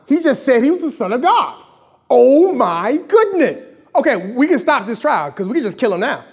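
high, loud, scandalized accusers; hammed-up outrage at a blasphemer; mock outrage. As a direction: act out shocked accusers, loud and high-pitched. Acting out the outraged accusers at trial.

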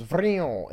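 vroom noise of a bike; imitated bike zoom. Podcaster mimics the kid riding out of the park, bike zoom.

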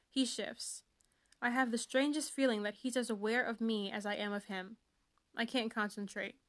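lightly dramatic first-person reading; story reading. Acted. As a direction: read it like a swoony teen novel. Reads book sample aloud.

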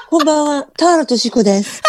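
goofy Tahara impression. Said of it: "ダメ？".

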